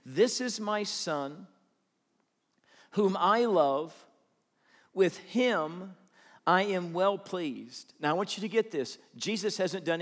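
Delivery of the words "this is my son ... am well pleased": voice of God. Retold or imitated. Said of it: "Matthew three seventeen".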